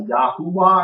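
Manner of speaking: Yahuwah with "oo" in the middle; another's pronunciation. Retold or imitated. Teacher recalling a gentleman's version of the name, imitated pronunciation. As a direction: say Yahuwah as "ya-HOO-wah". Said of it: "who said something like".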